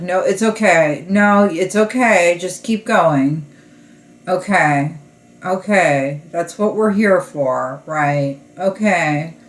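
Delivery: mock patient therapist hiding irritation; lightly voiced therapist trying not to show annoyance; imitating suppressed annoyance. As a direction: act out strained reassurance, a bit emphatic. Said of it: "trying so hard to not show how annoyed they are".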